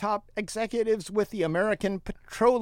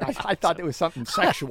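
laughing; faster than usual. Real, not acted. Joking about tactical pants.

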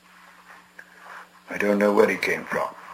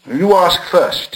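hasty reply; 9 semitones higher, 5 dB louder, much slower than usual. A narrator's reading. Nervous Bilbo.

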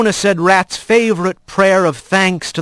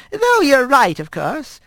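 higher, slow grandmother voice in broken speech; old squirrel grandmother; 11 semitones higher than usual. Acted. Grandmother greeting her grandson, higher and slow. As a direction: coax him like a fond old granny.

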